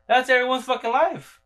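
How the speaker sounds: high, loud, fed-up exclamation; exasperated outburst. Real, not acted. Mocking generic tarot readings, exasperated loud outburst. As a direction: throw it out, fed up with the cliché.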